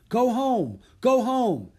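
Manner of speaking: high, loud cry, repeated evenly; yelled command. A narrator's reading. Boy sends elephant home, yelling. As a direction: yell to send an animal home. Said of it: "Jack yelled again at the elephant".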